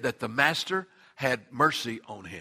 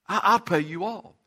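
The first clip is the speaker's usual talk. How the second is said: plea pushed out louder, higher; louder begging; 4 semitones higher, 4 dB louder than usual. Acted. Fellow servant begging again, urgent louder plea. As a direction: repeat the promise urgently, louder. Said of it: "he begged him".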